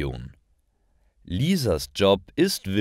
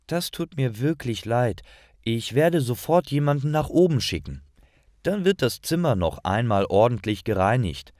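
higher, fast, eager-to-please apology; apologetic receptionist; 4 semitones higher than usual. Acted. Receptionist Lisa apologises to the guest, higher and fast. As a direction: rush to smooth things over, pitched up. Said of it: "antwortet Lisa".

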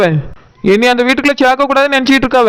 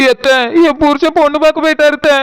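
mild tearful complaint; 2 semitones higher than usual. Acted. Wife telling aunt her husband went bride-viewing, tearful. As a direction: tell the aunt through light tears. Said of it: "நீ எதுக்கு அழுதுகிட்டு இருக்க?".

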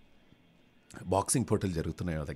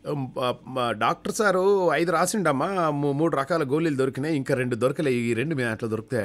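anxious patient; 8 semitones higher, 7 dB louder than usual. Acted. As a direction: drag it out, begging the shop. Patient at second shop.

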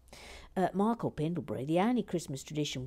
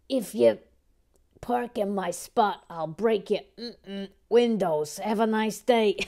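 put-on New York accent; 4 dB louder than usual. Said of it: "keep it in character".

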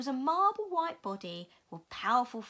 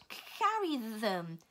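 commanding; much slower than usual. Acted. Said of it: "Missus Witch commanded".

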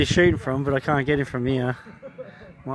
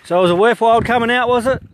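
sarcastic; 7 semitones higher, 5 dB louder, faster than usual. Real, not acted. Sarcastic jab after being shot.

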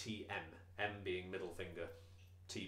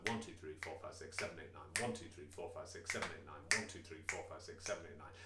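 counting the beat; 4 semitones lower, 4 dB quieter, faster than usual. Shown as a demonstration. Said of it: "here we get three groups of three quavers".

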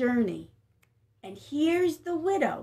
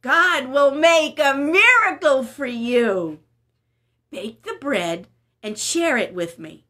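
reassuring Elijah; 6 dB louder, slower than usual. Acted. Elijah promises a miracle.

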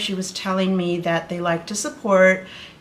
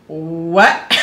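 inner shock; 3 semitones lower, 4 dB louder than usual. Retold or imitated. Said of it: "Like, that was my inside".

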